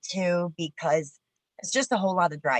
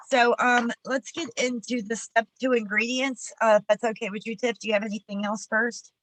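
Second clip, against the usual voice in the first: high-pitched, collecting yourself; raised voice pitch after welling up; emotional; 6 semitones higher than usual. Real, not acted. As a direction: move on while still emotional. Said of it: "I don't know why I'm emotional".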